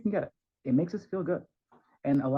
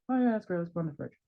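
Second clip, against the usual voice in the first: bored praise; 3 semitones higher, faster than usual. Pretend. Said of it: "That's boring".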